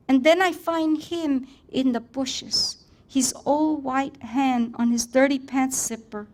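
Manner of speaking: an expressive author's reading of her own story. Acted. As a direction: perform the story for the audience, letting scenes carry it. Author reads her story aloud.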